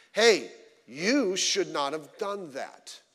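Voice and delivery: slow, deliberate scolding voice; gentle rebuke. Acted. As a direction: correct them slowly, word by word. Voicing the Bible's rebuke.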